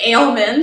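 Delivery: "ailment" for almond, first syllable like "ale"; alternative pronunciation. Shown as a demonstration. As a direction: say almond as "ailment", tune rising. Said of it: "you could say ailment".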